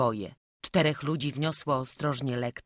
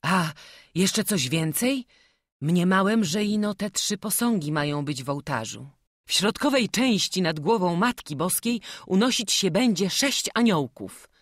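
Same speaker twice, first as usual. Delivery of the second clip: eager craftsman Stanko; 5 semitones higher, 6 dB louder than usual. A narrator's reading. Stanko explains the altar.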